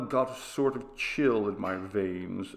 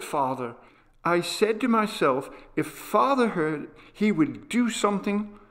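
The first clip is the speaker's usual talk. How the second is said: put-on a boy's higher voice, urgent and eager; earnest young boy; 7 semitones higher than usual. Boy urging his father to do something, in an eager higher boyish voice. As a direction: voice a small boy begging his father to act. Boy Roland pleads about sound.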